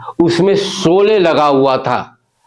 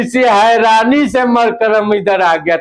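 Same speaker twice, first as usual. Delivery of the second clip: put-on South Indian accent; 2 semitones higher than usual. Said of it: "दोनों का अंदाज आपके बीच पेश कर रहा हूं".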